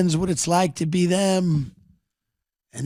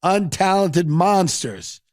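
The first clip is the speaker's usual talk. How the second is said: Rick's speech; 5 semitones higher than usual. Retold or imitated. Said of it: "He goes".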